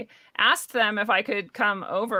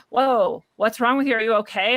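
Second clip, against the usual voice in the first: alarmed classmate; 3 semitones higher, 4 dB louder than usual. Retold or imitated. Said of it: "they'd go, gasps".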